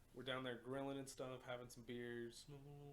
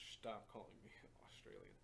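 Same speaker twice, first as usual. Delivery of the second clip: whispered; 3 semitones lower, 6 dB quieter than usual. Retold or imitated. Whispered quote, laughing.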